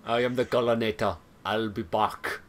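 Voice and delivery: low, deadpan killer-robot parody; joke Collinator voice. Pretend. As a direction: put on a low action-hero catchphrase voice. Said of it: "I had to make that joke".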